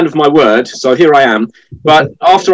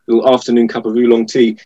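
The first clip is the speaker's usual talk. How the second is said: slurping tea while talking; sipping hot tea. Real, not acted. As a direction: talk between sips of tea. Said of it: "excuse the slurping".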